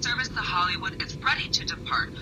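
airport announcement. Acted. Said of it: "Attention passengers".

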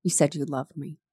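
a soft, tender reading of the line; softly read. A narrator's reading. Reading the book, the vampire speaks softly. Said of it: "His gold eyes grew very soft".

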